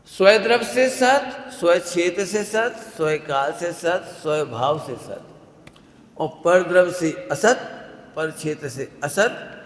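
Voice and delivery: slow chant-like listing, each phrase set apart; measured recitation. Acted. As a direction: lay out each term slowly like scripture. Reciting the eight modes. (धीरे-धीरे पाठ करते हुए)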